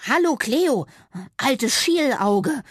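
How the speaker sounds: high, loud squeak, then slow on the insult; a squeaky mouse taunting the cat. Acted. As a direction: tease the cat while nervous. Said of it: "fiepte Fitti".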